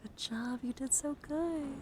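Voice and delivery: slow, rising, sweet encouragement; cooing praise. Pretend. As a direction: praise the listener like a little one. Praising the listener for focusing.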